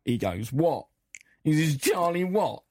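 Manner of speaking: light rock-singer voice; lightly voiced aging rocker; impression of a famous rock singer. Host plays a famous rock singer as a studio guest, lightly voiced. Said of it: "Sir Mick Jagger, please come in".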